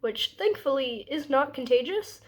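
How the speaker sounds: blocked nose, stuffed-up voice; speaking through a blocked nose; congested. Real, not acted. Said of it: "So I sound super congested".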